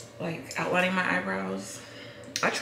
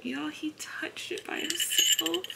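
excited whisper; 8 semitones higher than usual. Real, not acted. Excited whisper about baby.

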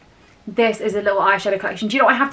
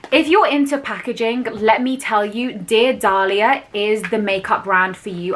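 infomercial voice. Pretend. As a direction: sell it like a TV ad. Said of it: "I sound like an infomercial".

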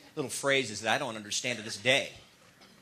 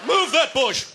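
devil voice; 12 semitones higher, 4 dB louder than usual. Retold or imitated. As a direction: squeal it like a baffled devil. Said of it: "That's how the devil walks".

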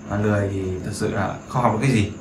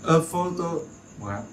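1 slow model phrase; 4 semitones higher, 6 dB quieter, much slower than usual. Shown as a demonstration. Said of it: "Thì a photograph".

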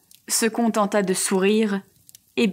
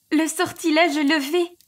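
high, bright-eyed exclamation, pitched well up; joyful sister exclaiming the spell is broken; 6 semitones higher than usual. A narrator's reading. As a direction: announce the good news with rising excitement. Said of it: "s'exclama-t-elle".

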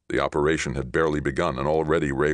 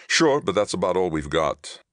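higher, pressed captain's voice; tense captain; 4 semitones higher, 4 dB louder than usual. Acted. Captain admits the odds to Johnny, tense. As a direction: answer under pressure, pitched up.

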